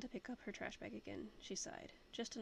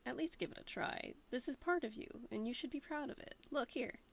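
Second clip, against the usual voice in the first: a lightly voiced young woman, upbeat and coaxing, pitched higher; Allison, encouraging friend; 4 semitones higher, 3 dB louder than usual. Allison urging the captain to embrace it, lightly voiced and coaxing. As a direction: cheer him on brightly as a lightly voiced Allison.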